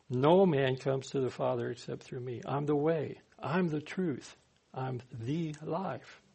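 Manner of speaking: solemn declaration. Acted. Jesus's words slowly declared.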